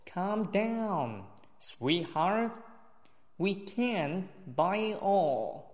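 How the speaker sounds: careful model reading with final t swallowed; weak final consonants. Shown as a demonstration. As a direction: drop the t in "sweetheart" and link "buy it all". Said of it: "扯不读". (示范弱读连读，t不读出来)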